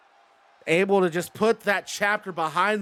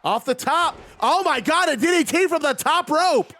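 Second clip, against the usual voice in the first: wrestling commentator; 9 semitones higher than usual. Real, not acted. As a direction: yell the big move like a ringside announcer. Top-rope DDT, big match call.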